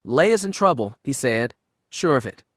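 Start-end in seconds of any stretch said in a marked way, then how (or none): 0.0-1.0 higher, urgent burst of fear; a touch of panic in the warning; urgent alarm. A narrator's reading. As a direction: blurt it out, alarmed. Sudden alarm for his sister.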